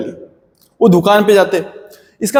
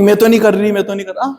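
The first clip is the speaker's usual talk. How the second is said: rude refusal. Pretend. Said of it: "ऐसे नहीं बोलोगे".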